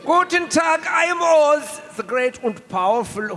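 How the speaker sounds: put-on lightly German-accented wizard; hint of a German mad scientist playing Oz; Richtofen as Oz. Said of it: "You are Richtofen as Oz".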